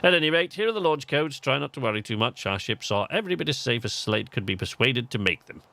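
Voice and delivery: lightly acted English accent. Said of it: "why he has an English accent".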